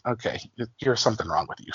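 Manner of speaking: mild retold mutter; muttered aside. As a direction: say it under your breath, dry. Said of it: "And I was like".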